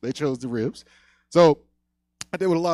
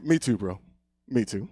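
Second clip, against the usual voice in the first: subdued, lower brotherly reassurance; mock sympathetic; 3 semitones lower than usual. Older brother comforts crying brother, mock sympathetic.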